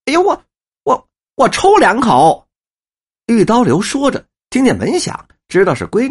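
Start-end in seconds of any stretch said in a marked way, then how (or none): 0.1-2.5 wheedling plea. Acted. Old man wheedling.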